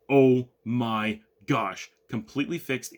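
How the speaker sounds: drawn-out, emphatic mock astonishment; retold amazement. Customers hearing the phone test work, retold amazement. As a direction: imitate a stunned reaction, stretching the first words.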